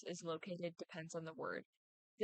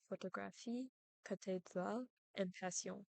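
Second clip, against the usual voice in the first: photographie, cathédrale, passion in French, weight on each last syllable; French final-syllable stress; 4 dB quieter than usual. Shown as a demonstration. Presenter gives photographie, cathédrale, passion as French examples, final-syllable stress. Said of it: "in French, I would say".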